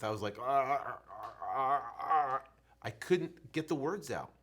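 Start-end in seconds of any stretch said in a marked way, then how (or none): 0.4-2.4 stammering. Retold or imitated. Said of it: "the words didn't come out of my mouth".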